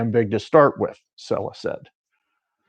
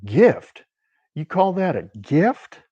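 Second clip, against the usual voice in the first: whooping disbelief; 6 semitones higher, slower than usual. A narrator's reading. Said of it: "Stella whooped".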